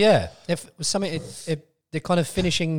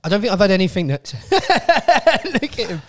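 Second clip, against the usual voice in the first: louder, strained talk through burning mouth; 5 semitones higher, 6 dB louder than usual. Real, not acted. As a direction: push words past a burning mouth. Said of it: "every time I breathe air out my mouth, it burns".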